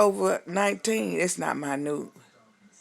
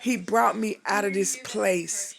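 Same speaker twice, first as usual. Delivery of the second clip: fighting tears; 3 semitones higher than usual. Real, not acted. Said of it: "taking everything in me to keep me from crying".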